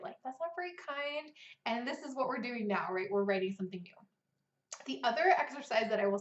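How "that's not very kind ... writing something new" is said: softer, calm; kindly redirect; gentle reminder. Shown as a demonstration. Writer gently reminding her inner critic, calm. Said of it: "So I'll just remind it".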